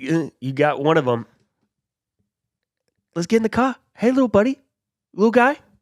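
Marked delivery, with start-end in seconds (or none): 3.1-5.5 put-on loud, raised, laid-on Boston accent. In a guessing game, doing a voice for the others to guess, Mark Wahlberg impression. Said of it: "that was good".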